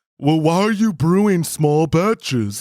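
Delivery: crude Neanderthal caveman voice. Imitating Todd's expected reply to the question: Todd's voice as a caveman Neanderthal. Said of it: "the caveman Neanderthal voice".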